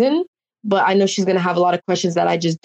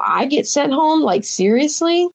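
high, indignant retold complaint; incredulous protest; 8 semitones higher than usual. Player protesting being sent home, high incredulous complaint. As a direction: pitch it up in disbelief, slowing on the last word.

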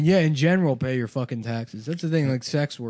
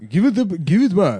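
mock Japanese plea; 7 semitones higher, 10 dB louder than usual. Imitating Nintendo request.

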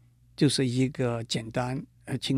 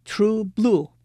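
true blue with both words stressed, higher; two heavy stresses; 7 semitones higher, 4 dB louder than usual. Shown as a demonstration. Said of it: "是重重的组合".

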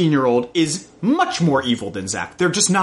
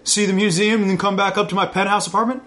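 sleazy come-on; 5 semitones higher, faster than usual. Retold or imitated. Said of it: "being like".

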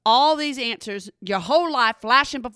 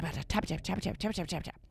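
soft tapping imitation; 6 semitones lower, 13 dB quieter, faster than usual. Imitating typing sounds.

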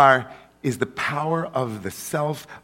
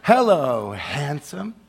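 breathy vintage purr; slower than usual. Acted. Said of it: "tell you the truth this way".

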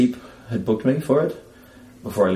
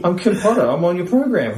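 high, loud, laughing through it; cracking up while insisting; 9 semitones higher, 6 dB louder than usual. Retold or imitated. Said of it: "I said".

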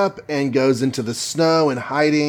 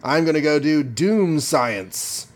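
hammed-up haughty villain, pitch easing down; indignant Victor; 3 semitones higher than usual. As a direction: play a pompous student genius warning someone off. Voicing Victor scolding Reed.

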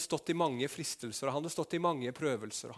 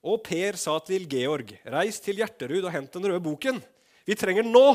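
hammed-up book reading; 5 semitones higher, 9 dB louder than usual. Preacher reads a random novel passage, building to a shout. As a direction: read it like a melodramatic novel.

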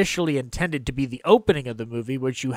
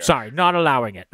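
Sean Connery; faster than usual. Acted. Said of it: "always wanted Sean Connery".

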